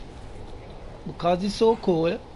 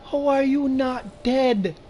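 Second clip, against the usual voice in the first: disbelieving; 6 semitones higher, 4 dB louder, slower than usual. Real, not acted. Enemy survives a headshot.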